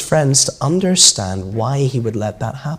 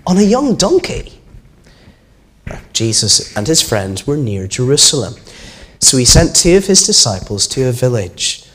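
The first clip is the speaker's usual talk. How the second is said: put-on reading to children. A narrator's reading. Minister reading the Easter story to children, storytelling voice.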